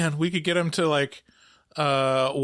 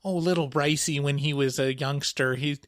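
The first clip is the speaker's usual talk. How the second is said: put-on Midwestern accent. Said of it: "giving my mom a, like, a Midwestern accent".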